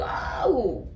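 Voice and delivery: an offended "oh really?" climbing high; shocked, high and slow. Retold or imitated. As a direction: pitch shoots way up, stretched out in disbelief. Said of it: "I'm like".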